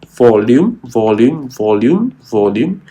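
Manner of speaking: volume said four times, each with a lift at the end; stressed word volume. Shown as a demonstration. Teacher drilling the key word for students, stressing volume. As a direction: hammer the word volume over and over. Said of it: "I stress the word".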